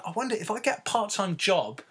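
a touch of goofy athlete voice, laughing through it; mock dim-witted Artest. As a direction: play him as a chuffed simpleton. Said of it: "what's first thing on his mind".

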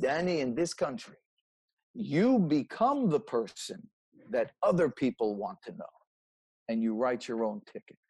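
a hint of a French father; French accent. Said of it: "he'd use his little accent and he'd say it like this".

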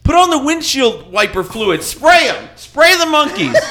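high, shouted mock-panicked orders; imitated shrill command with rising urgency; frantic mother. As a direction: yell to Bill as the hysterical mom. Mother's frantic bright idea.

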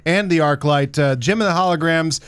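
lightly played field reporter delivery; mock live newscast. Box office reporter updating Paul, mock newscast. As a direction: report it like breaking election returns.

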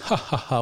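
put-on "ha ha ha"; mock laugh. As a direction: imitate a crowd-pleasing fake laugh. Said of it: "we're just gonna laugh".

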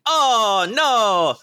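high cartoon voice rising to a whoop; Charles Martinet. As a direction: build from high praise to a shrieked cheer. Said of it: "And he's like".

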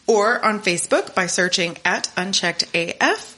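upbeat sign-off announcer read; podcast outro. Acted.

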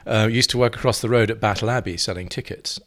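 ordinary talk, nothing marked

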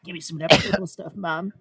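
hammed-up sick kid with a fake cough; pretend sore throat. Kid faking illness to get medicine from Mom, mock-sick pleading. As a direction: fake being poorly to win a treat. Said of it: "pretend I had a sore throat".

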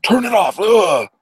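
high, hammed-up shout with loud groans; mock disgusted yell. Author guy in retold film wants it off, mock horrified yell. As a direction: yell it out in exaggerated revulsion.

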